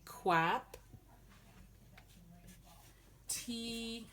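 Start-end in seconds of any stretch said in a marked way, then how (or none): 0.0-0.8 "quap" again with a clear kw; correct quap. Shown as a demonstration. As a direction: repeat "quap" the right way. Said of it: "not crap".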